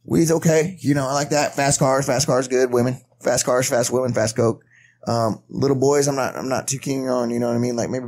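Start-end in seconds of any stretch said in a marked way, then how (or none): 0.0-4.6 Charlie Sheen impression. Playing Charlie Sheen, listing his vices to friends. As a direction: rattle off the list like Sheen. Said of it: "He'd be like".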